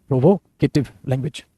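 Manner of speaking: Provocative language said slowly, each syllable spaced out; slow it down so students can write provocative language; slow dictation. Shown as a demonstration. Teacher repeating the term slowly for the class to copy it down.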